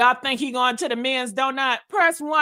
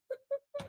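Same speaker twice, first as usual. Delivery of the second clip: high, very soft laughter; quiet giggle escaping; stifled laugh; 11 semitones higher, 15 dB quieter than usual. Real, not acted. Amused at own crude remark.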